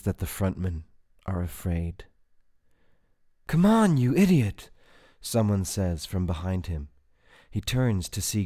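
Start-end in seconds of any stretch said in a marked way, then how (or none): 3.5-4.7 high, loud exasperated yell; sharp, impatient call; urgent shout. A narrator's reading. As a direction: shout at someone to get moving. Urgent shout from behind him.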